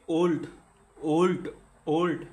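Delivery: ওল্ড in one loud beat each time; one-syllable demo. Shown as a demonstration. Teacher has students count syllables, ওল্ড in one beat. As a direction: say ওল্ড as one single punchy syllable, repeated. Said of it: "উচ্চারণ করেন এটাকে".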